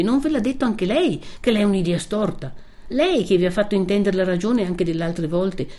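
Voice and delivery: young woman's earnest plea, lightly voiced; Lucia, gently pleading. (Lucia che supplica con dolcezza)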